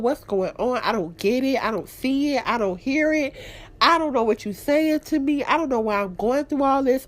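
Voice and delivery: imitating her own prayer, searching and sincere; retold prayer. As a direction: plead with God, lightly re-enacted. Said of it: "I literally was praying".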